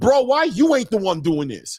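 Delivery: mock yelling. Speaker acts out what the listener should shout at the promotional company, imitating someone yelling. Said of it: "why are you not yelling at your promotional company like".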